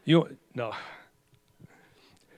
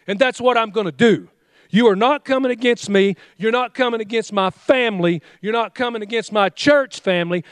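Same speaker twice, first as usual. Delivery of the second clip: firm, commanding rebuke of the devil; a preacher's stern command to the devil; rebuking the devil. Shown as a demonstration. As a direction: speak to the devil with authority. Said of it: "and you say".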